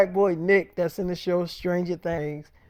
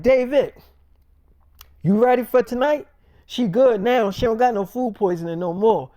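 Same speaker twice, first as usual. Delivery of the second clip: higher and louder, keen; eager Nick; 4 semitones higher, 5 dB louder than usual. Retold or imitated. Nick pressing David about the double date, high and loud. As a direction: hype him up about tonight, voice pitched up.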